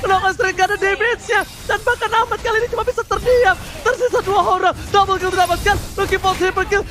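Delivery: fighting game announcer. Real, not acted. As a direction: build the call to a triumphant shout. Caster hype on team fight.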